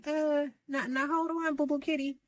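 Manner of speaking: high, sing-song put-down; sassy hold on. Retold or imitated. Angela checking her castmate, high sassy put-down. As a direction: talk her down with mock sweetness. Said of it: "Angela is like".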